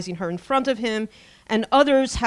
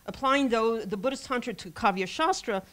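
sarcastic. Retold or imitated. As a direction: lay the sarcasm on. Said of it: "he says sarcastically".

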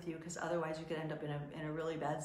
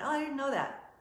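surprised; 8 semitones higher, 4 dB louder than usual. Retold or imitated. Designers surprised.

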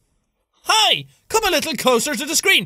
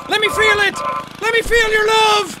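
mock preacher. Mock preacher urging players.

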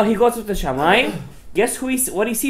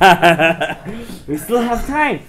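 chuckling through the words; laughing; 3 dB louder, much slower than usual. Real, not acted. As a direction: laugh it out gently. Laughing at own joke.

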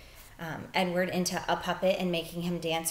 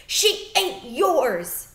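scream; 8 semitones higher, 9 dB louder, much slower than usual. Acted. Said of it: "Bryce screamed".

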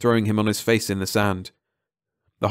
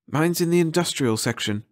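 put-on higher girl's voice, not whispered; shivering girl voiced higher, no real whisper; Mara's voice; 8 semitones higher than usual. A narrator's reading. Mara reporting to Eric, voiced higher and cold. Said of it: "Mara whispered, her teeth chattering".

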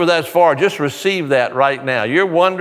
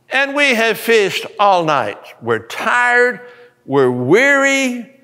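weary fishermen; 6 semitones higher, slower than usual. Acted. Preacher voices weary fishermen.

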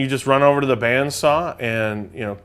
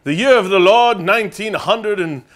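hammed-up preacher, drawn out; pompous mock prayer; 8 semitones higher, 7 dB louder, slower than usual. Mock solemn old-timey prayer.

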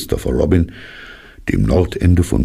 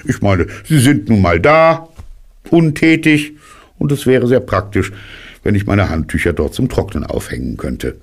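höher, munter plaudernd; hohe Kaninchenstimme; 3 semitones higher than usual. Acted. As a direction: das Kaninchen macht sich es bequem. Kaninchen, beiläufig frech. (hohe Kaninchenstimme, munter)

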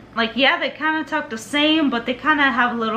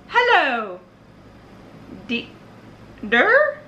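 attempted Irish accent; much slower than usual. Shown as a demonstration. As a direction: fumble an Irish hello, breaking off and questioning it. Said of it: "let me try my Irish acc-, accent".

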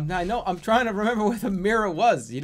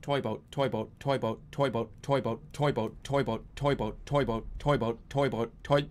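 low, softer, even repetition; careful tongue-twister attempt; 6 semitones lower, 5 dB quieter than usual. Real, not acted. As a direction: keep it low and steady, concentrating.

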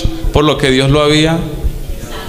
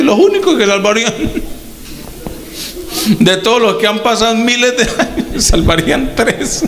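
high and laughing through the words; chuckling in disbelief as he preaches; 7 semitones higher than usual. Real, not acted. Preacher laughs at how few God would save.

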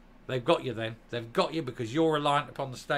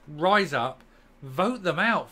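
rallying call; 3 semitones higher, 5 dB louder, slower than usual. Real, not acted.

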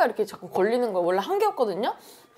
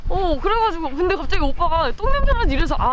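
muffled behind cloth mask; speaking with hand at mask; through a face mask; 7 semitones higher, 4 dB louder than usual. Real, not acted. Seen 3: Fabric mask over mouth and nose, hand at mask throughout.

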